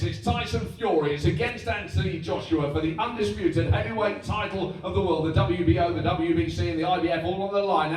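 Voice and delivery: big, punchy fight-night announcer; boxing voice. Shown as a demonstration. Announcer selling the big fight, boxing voice. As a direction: hype it like a heavyweight title call. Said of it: "boxing voice is always like this".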